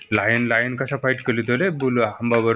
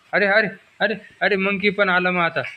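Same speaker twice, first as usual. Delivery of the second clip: higher, bright playful alarm at the toy; mock excitement; 5 semitones higher than usual. Parent to toddler as the toy monkey arrives, playful excitement. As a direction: sound thrilled the monkey came.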